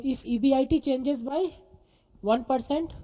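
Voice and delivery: slow, measured dictation. Real, not acted. Teacher dictating notes to students, measured dictation tone. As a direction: spell out the sentence for note-taking, rising at the end. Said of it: "same tone पे".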